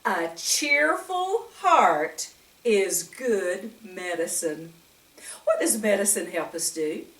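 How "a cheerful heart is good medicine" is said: slow recitation. Shown as a demonstration. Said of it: "Proverbs seventeen twenty-two says".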